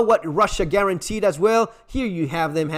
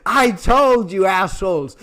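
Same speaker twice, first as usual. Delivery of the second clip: gloating Macron; 3 dB louder, slower than usual. Retold or imitated. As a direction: rub it in like a smug winner. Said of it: "Macron ... is saying".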